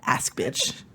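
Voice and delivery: a sharp unvoiced jab; whispered aside. Real, not acted. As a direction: whisper it under your breath. Muttered aside.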